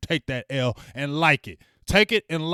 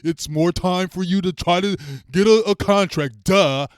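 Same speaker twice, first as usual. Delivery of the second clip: louder mocking know-it-all voice; imitating smug fans, louder; 4 dB louder than usual. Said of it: "They keep on saying".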